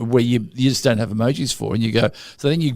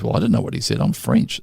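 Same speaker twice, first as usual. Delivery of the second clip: put-on French accent. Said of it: "She goes".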